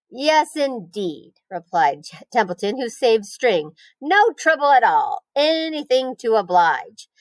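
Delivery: slow, drawn-out rat voice; a lightly voiced sly rat; Templeton the rat.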